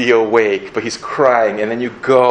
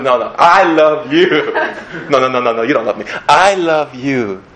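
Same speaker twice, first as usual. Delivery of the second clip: playful love contest; 2 semitones higher, 3 dB louder than usual. Pretend. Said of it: "like this, like, contest back and forth".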